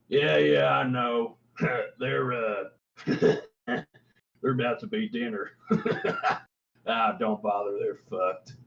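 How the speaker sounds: chuckling, dismissive guard; laughing npc. Acted. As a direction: laughs it off, careless.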